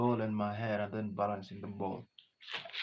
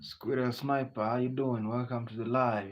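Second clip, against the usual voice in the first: louder, calling out to a viewer by name; loud greeting; 3 semitones higher, 6 dB louder than usual. Real, not acted. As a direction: hail the viewer across the stream. Streamer hails a viewer on live.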